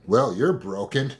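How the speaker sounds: a hint of a cold, mocking parent; narcissistic parent. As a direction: say it like a dismissive parent. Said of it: "this is the voice of your narcissistic parent".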